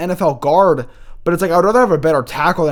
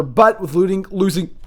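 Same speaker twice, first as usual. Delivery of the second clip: talking through hiccups; 4 semitones higher than usual. Real, not acted. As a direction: hiccup interrupting the words. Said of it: "I have the hiccups".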